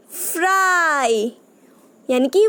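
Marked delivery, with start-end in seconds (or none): 0.1-1.4 फ्राई slow with a long ai; slow demo word. Shown as a demonstration. Teacher sounds out a picture word for children, slow. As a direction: draw फ्राई out for the class. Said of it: "तो यहाँ क्या आएगा आपका".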